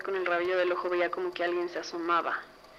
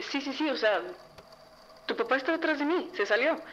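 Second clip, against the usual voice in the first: imitated insistence, pitched well up; insistent; 6 semitones higher than usual. Mom insisting to daughter about dad behind her, mock-urgent. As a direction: act out mom urgently insisting on what she felt.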